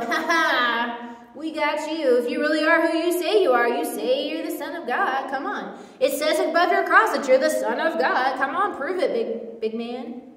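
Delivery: gloating, jeering priests; smug religious leaders mocking; mock taunting. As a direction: taunt him from below the cross.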